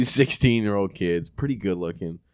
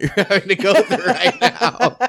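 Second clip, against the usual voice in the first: mock sympathy that breaks into a laugh, pitched higher; laughing apology; 11 semitones higher, 6 dB louder than usual. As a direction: apologize while laughing through it.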